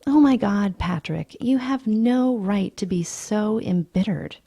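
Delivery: mock exasperated outburst; lightly voiced angry woman. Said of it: "Evelyn says angrily".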